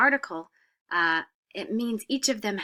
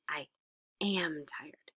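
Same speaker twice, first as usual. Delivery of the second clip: whispered correct form; 4 semitones lower, 8 dB quieter, much slower than usual. Shown as a demonstration. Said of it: "We need to say".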